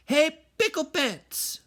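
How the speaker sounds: high, loud call across the yard; hollering mama. Acted. Mama calling her kitty boy across the yard, high holler. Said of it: "hollered Mama".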